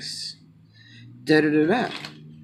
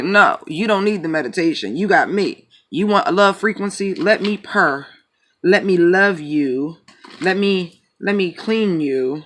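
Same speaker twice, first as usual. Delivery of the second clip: voicing the cat; 4 semitones higher, 3 dB louder than usual. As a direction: play the cat offering purrs and love. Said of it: "she's like".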